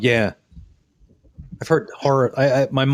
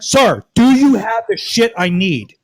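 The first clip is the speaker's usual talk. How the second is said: slow, louder, spelling out each word; exasperated slow demand; 5 dB louder, slower than usual. Retold or imitated. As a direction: drag it out, fed up and loud. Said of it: "He's just talking over me the entire time".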